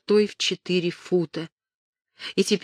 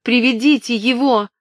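urgent demand; 6 semitones higher, 6 dB louder than usual. A narrator's reading. Catherine demands the priest.

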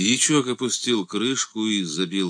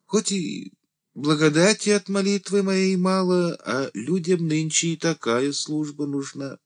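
fearful deacon; 12 semitones higher than usual. A narrator's reading. The deacon tells Andrey he is needed, high and anxious. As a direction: plead nervously for your worth. Deacon fears being shot.

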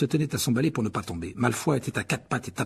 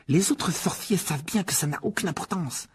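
very high, strained, outraged youngster; indignant boy; 9 semitones higher than usual. A narrator's reading. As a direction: explain a vile insult in a high, worked-up voice. Voices indignant sick boy Ron. (garçon indigné, voix très aiguë)

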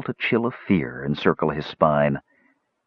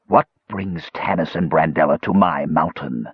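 edge of menace; 2 semitones lower than usual. Acted. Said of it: "with an edge of menace to his voice".

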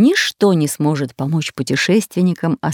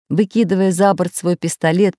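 ordinary delivery

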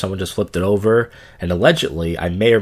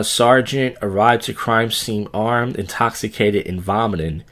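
odd news read; slower than usual. Acted.

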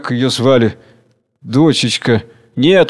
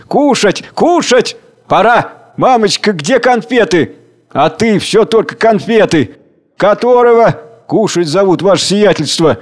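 much higher, eager shouts; joyful cries; 7 semitones higher, 4 dB louder than usual. A narrator's reading. The crowd greets the meal break with joyful shouts. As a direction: squeal like a hungry happy crowd. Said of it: "Радостные возгласы".

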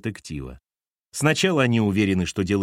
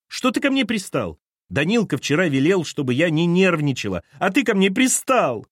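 Lena's voice; 7 semitones higher than usual. A narrator's reading. Lena voiced in the story.

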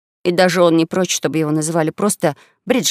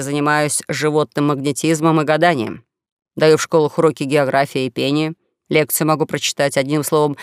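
lightly voiced jack-of-all-trades, lower than the narration; young swindler; 4 semitones lower than usual. Young swindler listing his trades to a possible partner, lower conversational voice. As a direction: list the trades in a lower character voice.

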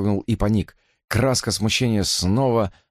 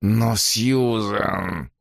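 slow, drawn-out whimper; much slower than usual. Acted. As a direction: whine it out in protest. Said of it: "прохныкал он".

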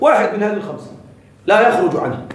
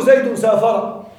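slow example; slower than usual. Shown as a demonstration. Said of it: "تقول".

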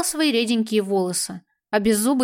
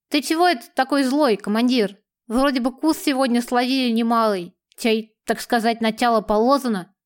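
lisping. Acted. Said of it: "шепеляво сказал беззубый разбойник".

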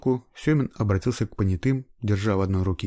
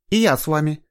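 firm; 8 semitones higher, 6 dB louder than usual. A narrator's reading. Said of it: "тоном, нетерпевшим возражений".

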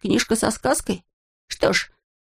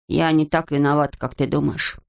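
excusing herself; 3 semitones lower than usual. Acted. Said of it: "начала оправдываться совесть".

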